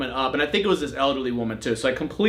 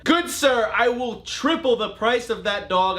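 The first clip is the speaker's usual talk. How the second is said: high, slow, hammed-up posh bidder breaking into laughter; mock gentleman buyer; 7 semitones higher, slower than usual. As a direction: play a grand gentleman throwing money around, half laughing. Mock pompous offer to seller.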